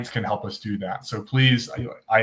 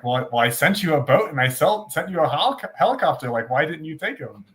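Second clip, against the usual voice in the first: rising, higher-pitched mock disbelief; mild exasperation; 5 semitones higher than usual. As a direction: joke punchline, lightly incredulous God. God's exasperated punchline in joke.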